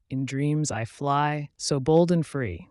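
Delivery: slow, dreamy, swelling on bold; dreamy duckling. Acted. Duckling dreaming of flight, dreamy. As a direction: float the words dreamily. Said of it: "the duckling dreamt dreamily".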